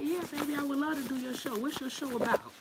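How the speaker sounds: high, sugary voice, a bit fast; sweet flirty reply. Retold or imitated. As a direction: coo it back like you're flattered. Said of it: "I be like".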